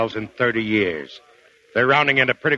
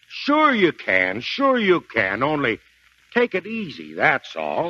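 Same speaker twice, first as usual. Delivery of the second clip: reassuring; slower than usual. Acted. Reassuring the fighter.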